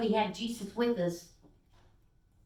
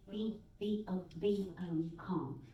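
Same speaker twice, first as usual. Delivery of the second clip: gentle calm; 7 dB quieter than usual. Acted. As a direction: hush them down gently. God gently calms.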